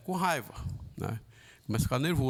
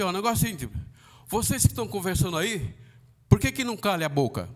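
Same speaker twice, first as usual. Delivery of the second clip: rude demand; 3 semitones higher, faster than usual. Shown as a demonstration. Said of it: "eu poderia falar de outra forma".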